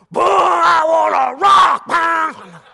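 loud, slow shouted rocker; hammed-up concert yell; mock rock shout. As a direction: yell it like a fan over the speakers. Imitating loud concert crowd guy.

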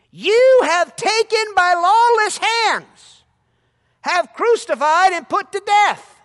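high, loud, slow accusation; Peter's accusing sermon. Acted. Peter accusing the crowd of crucifying Jesus, loud. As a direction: thunder it at the crowd. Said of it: "Notice how Peter speaks to these people".

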